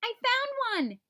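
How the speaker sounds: high, loud, slow excited kitten shout; excited cry. A narrator's reading. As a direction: announce your find with glee. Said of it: "Dottie cried".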